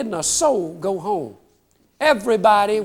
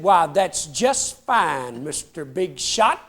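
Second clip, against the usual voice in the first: sarcastic wife; 4 semitones lower, slower than usual. Retold or imitated. Wife sarcastically scolding him.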